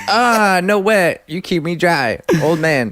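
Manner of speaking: hammed-up high quoted voice; mock complaint in character. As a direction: put on a high-pitched mock whine, easing down.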